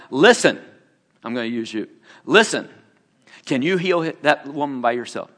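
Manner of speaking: a hint of the firm voice of God; stern Lord. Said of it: "he got really stern with me".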